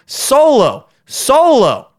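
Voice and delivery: high, giddy sing-song; excited sing-song. Acted. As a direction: gleefully draw out solo.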